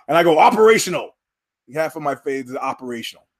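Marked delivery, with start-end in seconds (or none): 0.4-1.2 stiff, flat robot-like delivery; deadpan one-word film line; movie line. Retold or imitated. Actor delivering his one robotic film line.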